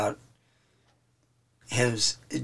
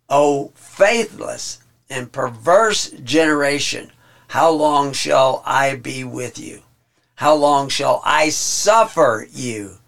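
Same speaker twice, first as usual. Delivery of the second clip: slow, weary reproach, each phrase drawn out and louder; exasperated rebuke; 5 dB louder, slower than usual. Acted. Preacher reading Jesus's rebuke to his disciples, slow and exasperated. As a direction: scold them like a tired teacher, slowly. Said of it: "I just added some inflection there".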